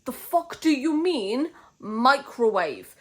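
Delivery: real outrage over microwaved tea; outraged disbelief. Real, not acted. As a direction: demand it slowly, appalled. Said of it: "Genuine question".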